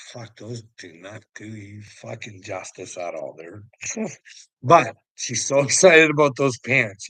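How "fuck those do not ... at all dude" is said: muttered inner thought, softer. Retold or imitated. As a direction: quietly think it to yourself, not aloud. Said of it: "in your head, you're like".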